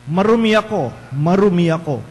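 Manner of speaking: leper's cry, lightly shouted; mild mock shout. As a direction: call out a warning without much force. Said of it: "You will shout".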